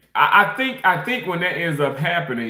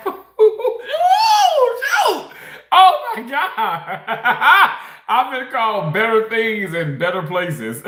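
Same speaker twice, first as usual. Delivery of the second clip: high whoops breaking into real laughter; cracking up laughing; 9 semitones higher, 4 dB louder, much slower than usual. Real, not acted. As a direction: laugh helplessly through the words. Cracking up at an insulting comment.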